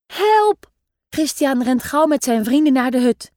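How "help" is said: kids pretending to be scared; hammed-up yell; mock cry for help. A narrator's reading. Children flee the monster.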